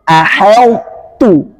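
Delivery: slow "aheltu" with thin h. Shown as a demonstration. Teacher shows the thin reading. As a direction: model "aheltu" lightly. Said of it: "tetap tipis, tarkik".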